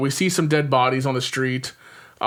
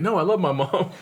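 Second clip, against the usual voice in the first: laughing quote; 4 semitones higher than usual. Retold or imitated. Quoting Sean, laughing.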